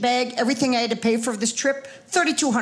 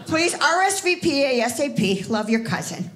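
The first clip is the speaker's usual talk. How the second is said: lightly imitated Wisconsin accent, laughing; cousin's Wisconsin accent; 2 semitones higher than usual. Reading her cousin's reunion email aloud, in a light Wisconsin accent. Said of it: "she typed the accent in the email".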